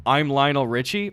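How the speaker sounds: casual con-man claim, half acted; mock scammer intro. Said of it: "do you start from a standpoint of saying".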